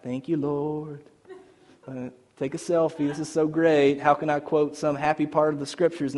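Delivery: soft, mock-pious contentment; understated parody of a happy believer; mock blissful gratitude. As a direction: play someone blissfully oblivious, gently. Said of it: "sitting in this prison like".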